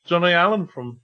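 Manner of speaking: shaky-footed attempt at Cockney, sliding Brummie; amateur Cockney with a Brummie slip; Cockney drifting into Brummie. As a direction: have a go at Cockney and miss. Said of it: "now I'm going really brummy".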